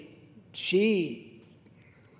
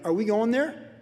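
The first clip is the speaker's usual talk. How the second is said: challenging question; 5 semitones higher than usual. Acted. Acted challenge in a marital argument.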